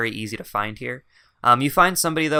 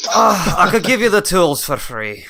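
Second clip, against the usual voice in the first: booming generosity; 7 semitones higher, 8 dB louder than usual. Pretend. Dwarf warmly generous.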